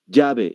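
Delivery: "llave" said as "yabe"; Peruvian Y. Shown as a demonstration. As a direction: start "llave" with a Y sound. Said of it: "es como dicen".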